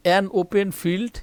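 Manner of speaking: an open field read out slowly; slow model reading. Shown as a demonstration. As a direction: spell out each word for the class. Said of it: "একটু লক্ষ্য করি". (ধীরে ধীরে স্পষ্ট উচ্চারণ)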